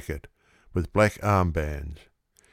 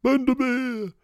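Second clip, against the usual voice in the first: high, drawn-out yelling of the name; feverish yell; 14 semitones higher, slower than usual. A narrator's reading. Oracle joining the crowd, yelling high for his horse. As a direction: take up the cry feverishly. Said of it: "he yells".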